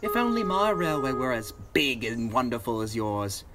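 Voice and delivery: sighing with longing; wistful sigh. Acted. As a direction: wish it aloud, a touch wistful. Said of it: "he sighed".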